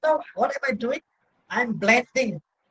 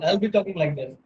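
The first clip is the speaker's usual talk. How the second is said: bored demo. Shown as a demonstration. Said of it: "If I'm bored".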